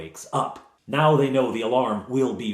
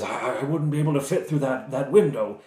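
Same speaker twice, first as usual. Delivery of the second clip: lightly put-on, higher voice; hesitant captive knight; 3 semitones higher than usual. Knight telling rescuers he won't fit the window, hesitant. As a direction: stammer a mild objection. Plays Sir Trevor objecting.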